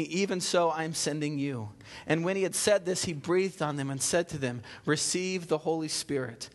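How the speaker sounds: measured scripture reading to the congregation. Acted. Pastor reading John to the church, measured reading. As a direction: read the passage steadily aloud.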